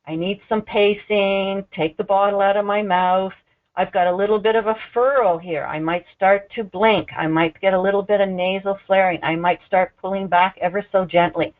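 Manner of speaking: a hint of a baby pleading for pacing; voicing the baby. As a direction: nurse voicing the baby to show feeding cues, mildly slowed. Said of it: "It's like".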